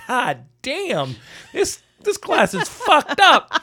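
high, loud, slow laughing exclamation; laughing disbelief. Retold or imitated. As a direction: blurt it out while cracking up in disbelief. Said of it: "and you're like".

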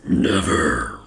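low, curt refusal; gruff character voice. Acted. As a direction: drop it low and flat.

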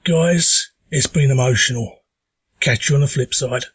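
hoarse from a sore throat; talking through a sore throat. Real, not acted. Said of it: "apologise for the voice. I have got a stonking sore throat".

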